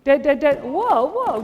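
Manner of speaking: very loud, high chant of dead; team yell. Real, not acted. Coach yelling the dead call at his players, very loud. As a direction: shout the call across the court.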